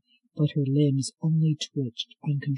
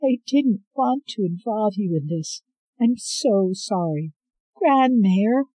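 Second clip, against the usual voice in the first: higher, loud urgent reassurance; anxious young woman; 7 semitones higher, 4 dB louder than usual. Acted. Scarlet finding her grandmother in the cell, anxious and urgent. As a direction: rush to calm her with your voice.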